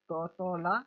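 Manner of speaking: each syllable set apart. Shown as a demonstration. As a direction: sound it out piece by piece for a learner. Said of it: "divide कर देना है".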